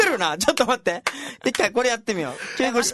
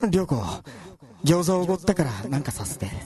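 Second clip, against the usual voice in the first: echo; 5 semitones lower than usual. Shown as a demonstration. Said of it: "このツイキャスでいただいたセリフを、シアさん、お願いします".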